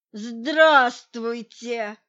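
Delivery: растянуть слово очень медленно и громко; издевательски протянуть приветствие; протяжно. A narrator's reading. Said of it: "протянул Соколов". (медленное протяжное «здравствуйте»)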